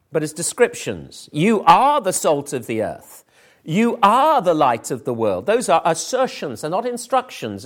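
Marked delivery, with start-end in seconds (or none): 1.3-3.2 "are" lifted and leaned on; a firm assertion landing on "are"; stress on "are". Shown as a demonstration. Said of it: "extraordinarily emphatic in two ways". 3.6-5.5 "are" raised, then falling away; emphatic assertion with weight on "are"; stress on "are". Shown as a demonstration. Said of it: "extraordinarily emphatic in two ways".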